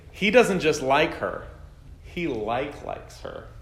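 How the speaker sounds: lightly voiced middle schooler leaning on "like likes"; middle-schooler emphasis. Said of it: "when middle schoolers say".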